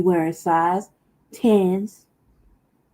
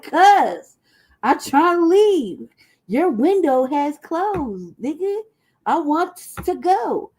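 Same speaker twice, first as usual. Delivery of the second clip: higher, slow pleading to leave; mock plea; 6 semitones higher, 4 dB louder, slower than usual. Telling her man she wants to go, slow mock pleading. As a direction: drag it out, begging to go. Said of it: "I was like".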